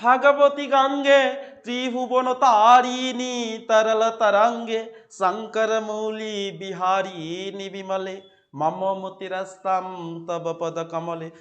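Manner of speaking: slow, measured chanting of the shloka; slow devotional verse recital; slow recitation. Shown as a demonstration. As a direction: recite it slowly like a hymn. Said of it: "কি, কিভাবে পড়বে?".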